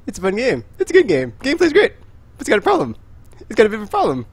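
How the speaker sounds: high, loud rising rant; excited rant. Real, not acted. Ranting about the game.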